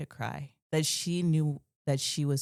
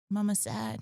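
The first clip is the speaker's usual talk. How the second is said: higher, small questioning voice; toddler voice; 6 semitones higher than usual. Retold or imitated. Little daughter checks on her sad mom, in a higher toddler voice. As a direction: voice the little girl asking gently.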